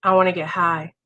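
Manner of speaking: the craving finally gets a low voice; voiced craving. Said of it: "And then the next day".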